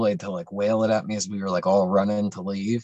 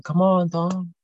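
higher, hurried urging; urgent call; 8 semitones higher, slower than usual. Retold or imitated. Friends at the door urging Tom, urgent call. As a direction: hurry him out the door.

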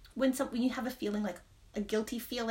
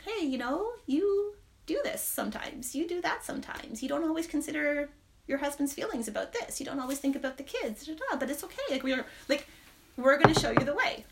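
higher, gentle reassurance; sweet gentle voice; 5 semitones higher than usual. Retold or imitated. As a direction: comfort yourself like a kind guide. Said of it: "but also so sweet and gentle".

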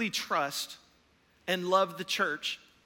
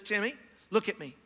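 put-on measured, calming words to a child. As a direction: talk a panicking boy down, pausing between phrases. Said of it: "He looks at him very calmly".

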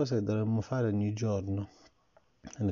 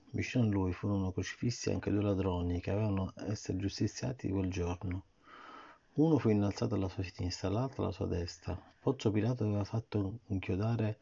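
put-on reading to a child. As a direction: read the story gently to the child. Parent reads Bible story. (lettura a un bambino)

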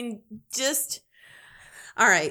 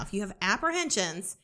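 confiding whisper; 6 dB quieter, faster than usual. Real, not acted. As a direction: drop to a soft whisper. Confiding sales pitch to listener.

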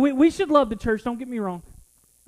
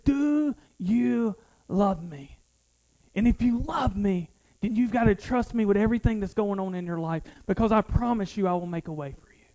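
gentle voice of God; 3 semitones lower, 4 dB quieter than usual. Retold or imitated. God's voice retold, slow and soft.

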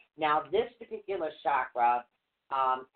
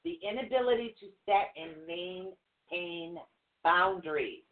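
trying not to laugh; 4 semitones higher than usual. Real, not acted. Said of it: "how hard it is to stay serious".

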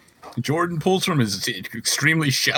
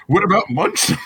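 mocking; 9 semitones higher, 6 dB louder than usual. Mocking the munch segment.

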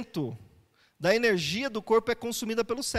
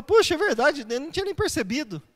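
mildly surprised, higher-pitched reaction; lightly acted surprise, pitched up; mock surprised realization; 5 semitones higher, 3 dB louder than usual. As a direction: act out a sudden "oh, you're right".

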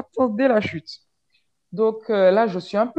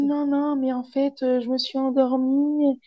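mimicking the guy; 6 semitones higher than usual. Imite le gars qui se justifie.

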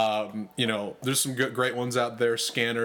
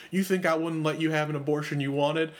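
light mock Texas accent; a hint of put-on Texan; Rick; 3 semitones higher than usual. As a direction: imitate a Texas ranger's Southern accent. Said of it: "Have you heard your accent?".

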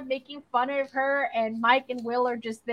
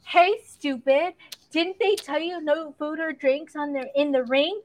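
imitated bully taunt; 4 semitones higher than usual. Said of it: "She's like".

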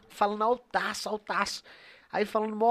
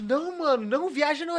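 lightly higher-pitched imitation of a friend; mock the buddy's squeaky voice, lightly; a hint of a squeaky friend; friend's voice; 6 semitones higher than usual. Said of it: "Ele tem essa vozinha?".

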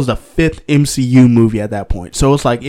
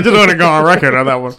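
talking while chewing; mouth full; 3 semitones higher, 3 dB louder, faster than usual. Real, not acted. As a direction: speak around a bite of pizza. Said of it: "if you hear me chomping, I'm eating".

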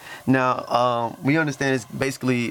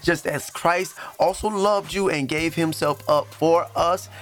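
raised-pitch Bible reading; emphatic scripture reading; 3 semitones higher than usual. Acted. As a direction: proclaim the verse as an exhortation. Reads scripture aloud.

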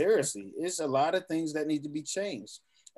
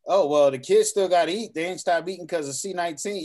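mocking quote; 6 dB louder than usual. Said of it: "They say".

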